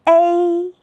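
"A" as long ēi, high and level; first-tone "A", drawn out for learners; tone drill. Shown as a demonstration. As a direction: hold "A" on one high flat note, first tone. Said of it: "和老师一起来读读".

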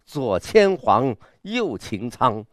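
放慢拉长，逐字铿锵地朗诵; slow, grand recital with a sense of pageantry; 很有阵势. Shown as a demonstration. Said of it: "他的这种狂是很有阵势的". (有阵势的狂放朗诵)

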